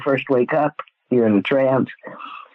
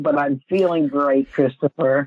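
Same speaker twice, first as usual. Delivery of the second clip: hoarse, croaky voice from a cold; frog voice. Real, not acted. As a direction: croak it out with a sore throat. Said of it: "I sound a little like a frog".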